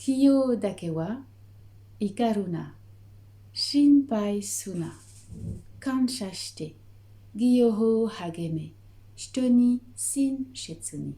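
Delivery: slow, deliberate Japanese syllables; récitation japonaise lente et appliquée; careful Japanese recitation. Shown as a demonstration. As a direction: recite each ideal with care. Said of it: "je vais m'appliquer à les dire maintenant en japonais".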